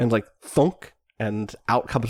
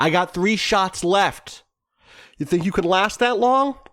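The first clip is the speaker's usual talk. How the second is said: high, shouted taunting yell; 8 semitones higher than usual. Recounting what a man shouted from a helicopter, retelling a shouted taunt. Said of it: "and he shouts out like".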